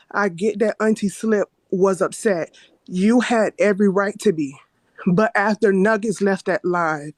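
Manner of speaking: trembling voice, holding it together; shaky voice. Real, not acted. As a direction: voice shaking with nerves. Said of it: "sorry, my voice is shaking".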